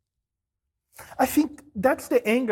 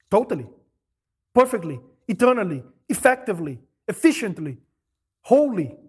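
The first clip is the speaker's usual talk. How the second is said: emphatic list; 2 semitones lower, 4 dB louder than usual. Real, not acted. Listing how Jesus paid.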